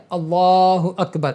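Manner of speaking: "اللہ اکبر" said slowly with a short, proper alif; correct Allahu Akbar. Shown as a demonstration. Teacher modelling the right takbir for students: "اللہ اکبر" said slowly and cleanly. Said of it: "اس طرح آپ کو بولنا ہے".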